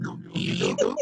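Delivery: breaking-up whispery call audio; distorted voice. Real, not acted. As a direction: voice dropping out online. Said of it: "tá ruim ainda".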